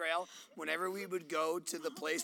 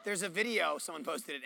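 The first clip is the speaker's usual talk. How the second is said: usual speaking voice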